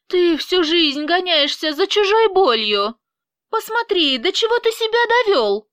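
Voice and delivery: raging, fast at the end; furious shouting. Acted. Angelina yelling at Vyacheslav, furious shouting.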